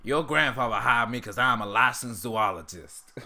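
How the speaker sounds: put-on cartoon character voice, roughly done; Uncle Ruckus impression. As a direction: have a go at the character's voice. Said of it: "I try, I try".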